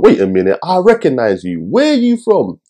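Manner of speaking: mock-puzzled thought, jumping high on the question; puzzled recognition. Reviewer recalling seeing the actress's face, puzzled recognition. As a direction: act out suddenly placing a familiar face.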